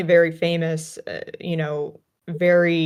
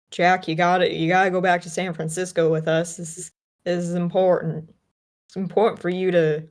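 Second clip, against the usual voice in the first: put-on a light country accent, a bit fast; half-hearted country twang for a city boy; mild rural American accent, rushed; faster than usual. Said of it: "giving him a, like, country accent".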